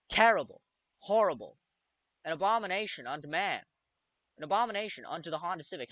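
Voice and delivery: hammed-up mock outrage; wild unhinged ranting. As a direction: overblown dramatic disgust. Mock outrage at wrecked car.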